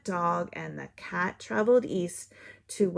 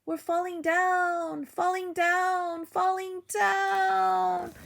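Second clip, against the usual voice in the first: high, slowing wail; falling voices fading; falling cry; 11 semitones higher, 3 dB louder, slower than usual. Acted. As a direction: draw it out as you fall. Dish and spoon falling.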